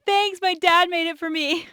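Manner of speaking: a hint of a proud little girl. Girl to a hospital guard, lightly voiced proud child. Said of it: "And I said".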